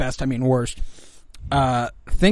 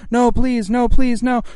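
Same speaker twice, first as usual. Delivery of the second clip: higher, louder pleading no; anguished denial; 10 semitones higher, 5 dB louder than usual. Acted. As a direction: beg for mercy, hammed up. Victim begs in read skit.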